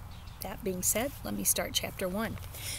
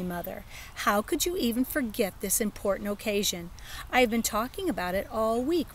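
put-on child voice. Child voice talking to mother.

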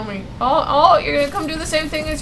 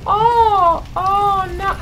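taunting; 7 semitones higher, slower than usual. Real, not acted. Taunting monster stuck in door.

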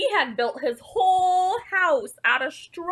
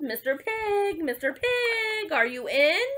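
calling out; 3 semitones higher than usual. Acted. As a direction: call through the door without raising volume. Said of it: "I called".

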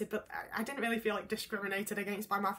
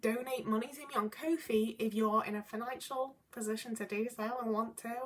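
goblin voice; 3 semitones higher than usual. Pretend. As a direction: play a scheming little goblin asking for cash. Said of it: "That's my goblin voice".

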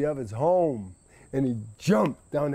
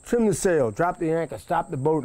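captain's orders; 3 semitones higher, 3 dB louder than usual. Acted.

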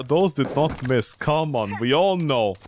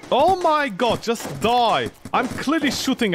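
frustrated shout; 6 semitones higher, slower than usual. Real, not acted. Frustrated at enemy.

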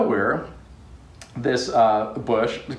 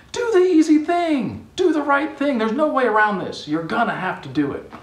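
urgent exhortation; 12 semitones higher than usual. Retold or imitated. Speaker urging people in a quote.

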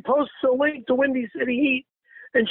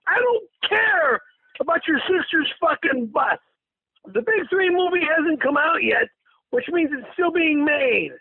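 livid retort; 3 semitones higher than usual. Retold or imitated. Man retelling his reply to Rosie about the bus movie, mildly livid. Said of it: "I'm just fucking livid".

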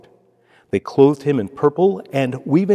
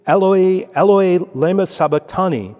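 raised, ringing cry of anguish, higher and louder; 5 semitones higher, 4 dB louder than usual. A narrator's reading. Jesus on the cross crying out to God, loud anguished call. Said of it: "cried out in a loud voice".

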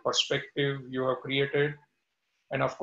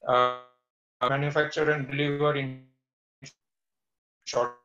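crackling audio. Real, not acted. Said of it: "your audio is crackling in".

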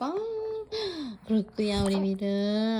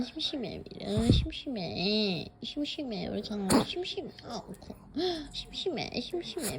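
whiny bored puppy voice. Pretend. Voicing the bored dog.

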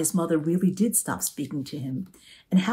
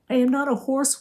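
high, louder wail; 9 semitones higher, 4 dB louder than usual. A narrator's reading. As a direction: wail in protest, hurt. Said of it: "wailed Lulu".

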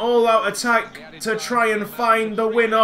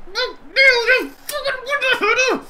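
ecstatic yell; 13 semitones higher than usual. Real, not acted. Gamer celebrating his player's header, ecstatic yell. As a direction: scream the scorer's name in delight.

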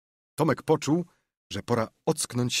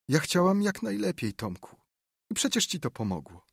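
softly; 8 semitones higher than usual. A narrator's reading. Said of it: "powiedziała miękko".

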